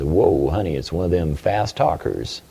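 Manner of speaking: put-on low-pitched folksy aside from a good old boy. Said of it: "Good old boy answers the phone".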